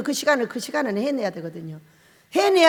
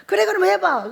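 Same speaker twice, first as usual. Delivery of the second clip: mock Jesus voice; 7 semitones higher, 5 dB louder than usual. Jesus answering Peter.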